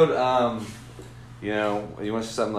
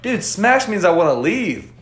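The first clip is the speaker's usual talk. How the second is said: mock young guy; 9 semitones higher, 7 dB louder, slower than usual. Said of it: "And the guy goes".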